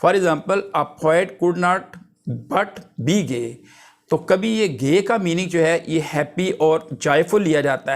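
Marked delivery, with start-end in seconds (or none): 0.0-3.5 quoting the example line slowly; slow dictation. Acted. Teacher reading an old poetic example to the class, slow. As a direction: read the example out word by word.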